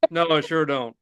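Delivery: usual speaking voice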